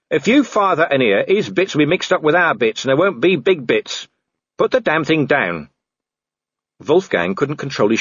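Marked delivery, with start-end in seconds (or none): 0.1-5.7 exasperated commander. Acted. Voices Vimes warning his sergeant.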